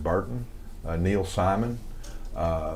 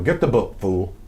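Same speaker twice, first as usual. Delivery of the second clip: punchy, louder catchphrase delivery; mock tough sign-off; 3 dB louder than usual. Shown as a demonstration. Wrestler plugging his book to the fans, with a punchy call. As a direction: snap it out like a wrestling promo. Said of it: "and I tell people".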